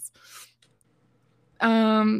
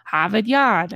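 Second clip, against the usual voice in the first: put-on Boston accent; slower than usual. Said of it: "because they're like".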